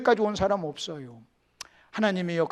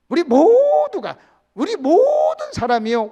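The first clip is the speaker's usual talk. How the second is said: drawn-out emphasis; 9 semitones higher, 9 dB louder, slower than usual. Acted. Slow emphatic preaching.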